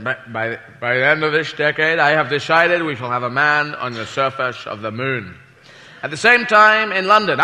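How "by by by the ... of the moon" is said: Kennedy impression. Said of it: "President Kennedy said".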